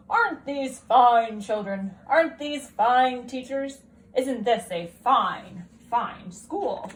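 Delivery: slow, loud, beaming headmaster; a delighted school principal, slow and loud; proud principal. Acted. Principal character voice.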